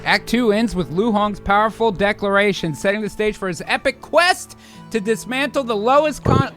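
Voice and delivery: dramatic trailer-style reading; epic act closing. Acted. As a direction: announce it grandly, punching the quest. Reads scene like epic narration.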